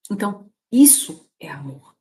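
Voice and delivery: breathy, half-crying whisper; choked whisper, moved by her own words; tearful whisper. Real, not acted. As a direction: let the voice crack into a whisper. Emotional point about love.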